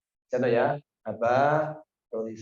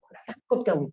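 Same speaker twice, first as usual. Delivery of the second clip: higher, rapid-fire baffled questions; amazed questioning; 7 semitones higher than usual. Retold or imitated. Official quizzing the fearless sheikh, higher and incredulous. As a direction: pepper him with disbelieving questions.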